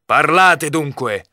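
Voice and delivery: exclaiming. A narrator's reading. Knight ordering the youth to explain, exclaiming. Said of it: "esclamò il cavaliere".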